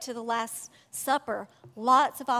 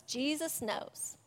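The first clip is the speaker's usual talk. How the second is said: gentle reassurance; 8 dB quieter, slower than usual. Real, not acted. Sermon, comforting the hurt.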